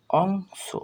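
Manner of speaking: অংশ with a held ng sound; pronunciation demo. Shown as a demonstration. Teacher shows learners the word, অংশ enunciated. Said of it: "এর উচ্চারণ কিভাবে করতে হয়".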